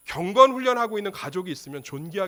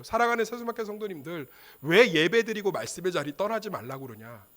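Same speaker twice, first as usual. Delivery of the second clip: ordinary talk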